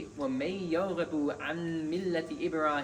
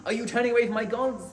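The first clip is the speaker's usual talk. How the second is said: loud, higher, fast outburst of أغارب أنت عن آلهتي; indignant loud cry of أغارب أنت عن آلهتي, voice raised high; dramatic angry father; 6 semitones higher, 7 dB louder, faster than usual. Retold or imitated. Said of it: "This very emotional and dramatic".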